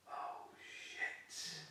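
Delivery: breathy, stunned curse; whispered shock. Retold or imitated. Seeing the huge fish roll, a whispered stunned curse. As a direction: gasp it under the breath. Fish rolls, he sees size.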